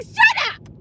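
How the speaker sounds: high-pitched, exasperated snap; fed-up comic yelp; exasperated outburst. Acted. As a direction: cut them off, voice leaping up. Mock-arguing back at critics.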